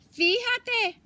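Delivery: high, loud exclamation of wonder; delighted surprise. Acted. Grandmother realizing the mice filled it, amazed. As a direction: burst out in amazement.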